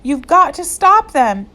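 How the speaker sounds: teacher pressing the sheriff; urgent. A narrator's reading. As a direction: push him to act now. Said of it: "urged Catherine".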